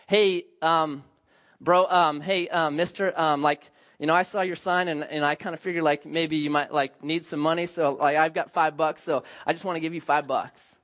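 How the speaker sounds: put-on awkward teenage self. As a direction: fumble through it like a shy kid. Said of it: "you just don't quite have the social skills".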